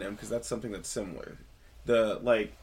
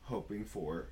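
storytelling voice. Shown as a demonstration. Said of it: "storytelling voice for realsies this time".

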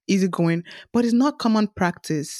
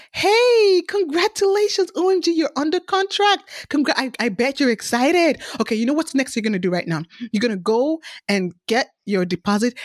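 much higher, bright bubbly realtor cheer; jolly; 3 semitones higher than usual. Retold or imitated. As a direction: gush congratulations like an overexcited realtor. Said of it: "and all jolly, jolly, jolly".

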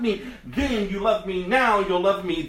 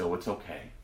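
mock soothing; 14 semitones lower, 10 dB quieter than usual. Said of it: "pat you on your head and say".

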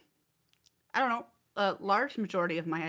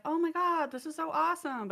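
sounding sarcastic; 10 semitones higher than usual. Retold or imitated. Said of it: "it comes across as, like, sarcastic".

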